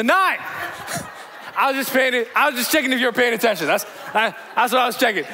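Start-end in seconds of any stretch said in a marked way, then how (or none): 1.6-5.2 fast, laughing excuse. Real, not acted. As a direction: brush off the slip with a laugh. Covers mistake, laughing.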